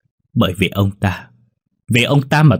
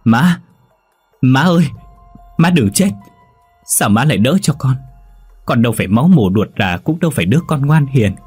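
high, loud, anguished crying plea; wailing in grief; 5 semitones higher, 3 dB louder than usual. A narrator's reading. Đại clutches his stabbed mother, wailing high and loud. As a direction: sob out the words over a dying mother. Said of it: "ôm chầm lấy bà mà gào khóc".

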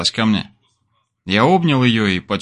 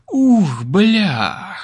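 choking on smoke; 8 semitones higher than usual. Acted. Drag on a joint, then coughing.

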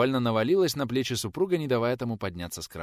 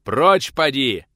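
much louder, slow, forceful; angry dismissal; 5 semitones higher, 12 dB louder, much slower than usual. A narrator's reading. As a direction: throw him off the porch. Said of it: "выдохнул учитель".

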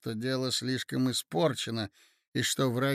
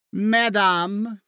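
loud, higher, stately address; solemn and dignified; 6 semitones higher, 7 dB louder than usual. A narrator's reading. Marya Aleksandrovna addresses the gossips, solemn and dignified. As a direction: open grandly, with dignity. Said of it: "начала она торжественно и с достоинством".

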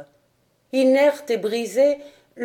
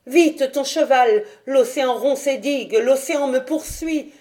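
panicked plea; 4 semitones higher than usual. Acted. Dahu flees to her father.

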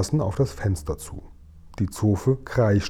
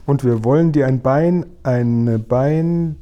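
"ein Bein" repeated and left hanging; faltering; 2 semitones higher, 3 dB louder, slower than usual. A narrator's reading. Giant searches for the right word, faltering on "ein Bein". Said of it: "stockte und suchte nach dem passenden Wort".

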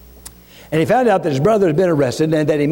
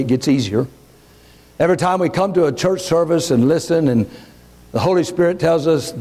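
closing prayer. Acted.

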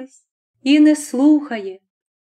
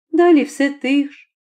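usual speaking voice

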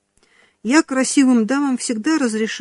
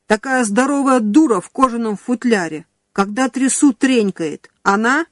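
yelling through a window; 3 semitones higher, 3 dB louder than usual. Acted. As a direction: shout it out from the guardhouse. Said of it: "он заорал в форточку".

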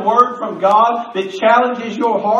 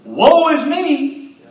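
slow, higher, hammed-up woe; mock lament; 6 semitones higher, much slower than usual. Believers stuck feeling sorry for themselves, mock lament. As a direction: drag it out in mock self-pity. Mocking self-pity.

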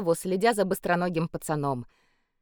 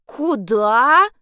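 curious; 5 semitones higher, 8 dB louder than usual. A narrator's reading. Boy curiously asks.

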